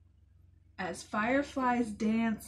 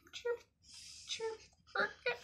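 cricket chirp; 13 semitones higher, 8 dB quieter than usual. Pretend. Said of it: "It's a chirping noise".

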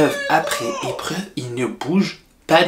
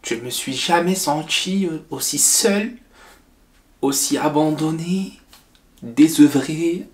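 sad; 3 semitones lower, slower than usual. Acted. Wife's sad confession.

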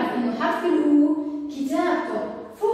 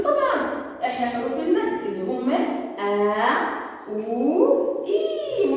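letter O voice. Acted. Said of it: "قال له".

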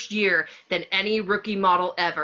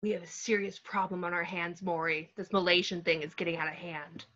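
whispering; 5 dB quieter than usual. Acted. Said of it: "to whisper into the ear".

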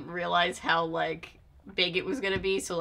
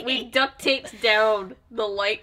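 laughing; 3 semitones higher, 7 dB louder, slower than usual. Real, not acted. Telling story while laughing.

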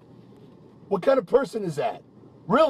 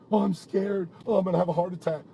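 mocking quote; 3 dB quieter, faster than usual. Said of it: "And then plays a".

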